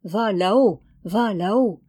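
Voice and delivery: mill voice. A narrator's reading. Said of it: "son moulin voulait dire".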